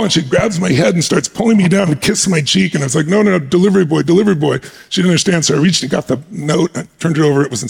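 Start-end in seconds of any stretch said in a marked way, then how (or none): 3.1-4.6 re-enacted hurried correction, somewhat raised; mildly flustered explaining who you are; insistent protest. Retelling his protest while being kissed.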